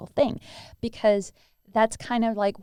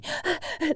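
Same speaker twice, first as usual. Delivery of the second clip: fearful breath out; 7 semitones higher, 3 dB quieter than usual. Shown as a demonstration. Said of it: "That's how it sounds".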